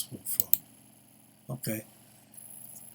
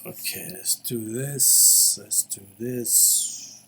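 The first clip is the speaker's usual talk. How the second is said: slow, drowsy voice; barely awake, dragging words; nodding off; slower than usual. Real, not acted. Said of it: "That's because I fell asleep".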